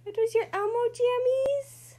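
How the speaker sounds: excited. Real, not acted. Excited game with toddler.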